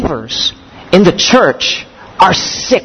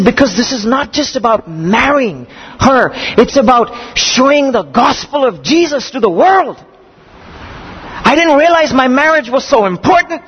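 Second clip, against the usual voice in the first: quoting the groom, brighter and higher, lit up; excited groom; 5 semitones higher than usual. Retold or imitated. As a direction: relive his thrilled discovery. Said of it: "This is just so exciting".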